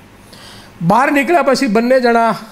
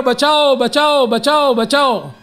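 retold cry for help; 3 semitones higher than usual. Drowning boy calls from the well, mock yell. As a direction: imitate a mild shout for rescue. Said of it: "રાડ પાડવા માંડ્યો".

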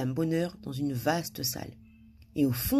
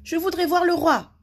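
high, lilting polite request; polite smile; 13 semitones higher, 6 dB louder than usual. A narrator's reading. Madame Bonheur asks the guard, smiling politely. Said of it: "souriant poliment".

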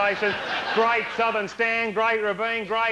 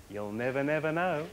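hushed slogan; 5 semitones lower, 6 dB quieter than usual. Acted. Quotes tourism slogan in hushed ad voice.

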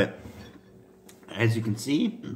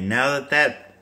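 gagging mid-sentence; words broken by a gag; dry heaving; slower than usual. Real, not acted. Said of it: "sorry, I just had to gag one more time".

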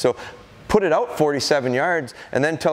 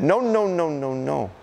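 sharp correction; 2 semitones higher than usual. Retold or imitated. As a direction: stop the dog before it jumps. Trainer correcting puppy mid-jump.

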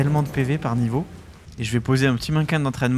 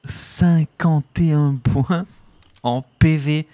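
awed repeat; 3 semitones higher, 5 dB louder, much slower than usual. Real, not acted. Repeats stat in awe.

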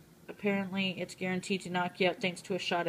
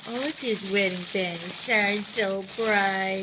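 ASMR voice. Acted. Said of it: "It's the A S M R part".

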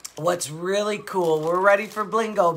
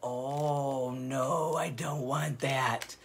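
softer, slower mock-timid reply; small scared voice; 5 semitones lower, 8 dB quieter, much slower than usual. Grandma imitates granddaughter scared of sharks, mock-timid and soft. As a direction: shrink back a little, a touch of fear. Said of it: "she's just looking like".

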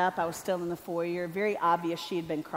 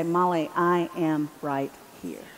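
reassuring voice of God; 4 semitones lower than usual. Retold or imitated. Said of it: "I sensed God through his spirit say".

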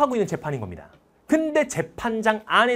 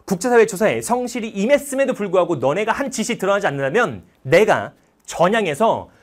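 tearful defiant speech; 5 dB louder than usual. Retold or imitated. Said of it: "엄청난 눈물을 글썽이면서 이렇게 막 얘기를 합니다".

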